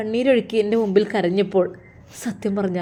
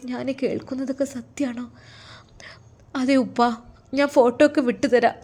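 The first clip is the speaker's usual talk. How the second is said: higher-pitched, heartfelt dialogue; lightly voiced emotional family; 5 semitones higher than usual. Daughter tells her father she lives well, emotional. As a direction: reassure a worried parent with feeling.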